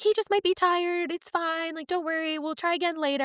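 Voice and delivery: high, sing-along soothing nurse voice; imitated reassurance. Nurses comforting a frustrated new mother, imitated reassurance.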